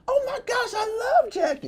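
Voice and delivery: high squealing excited mom; mom's excited high voice. Retold or imitated. Son imitating his mom gushing about a comedian, high squeal. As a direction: squeal it like a thrilled mother. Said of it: "she was like".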